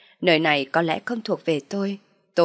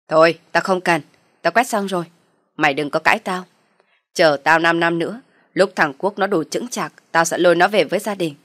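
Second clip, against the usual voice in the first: loud menacing mother-in-law; threatening scolding; 5 dB louder than usual. Acted. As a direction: threaten her, loud and hard.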